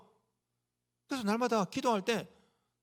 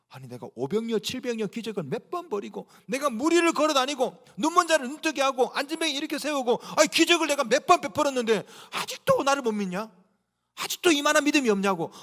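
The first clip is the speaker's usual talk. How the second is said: exasperated rebuke; 3 semitones higher than usual. Acted. Jesus frustrated with followers who still doubt, exasperated rebuke. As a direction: build into a fed-up complaint. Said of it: "우리 주님 볼 때 너무너무 답답한 거죠".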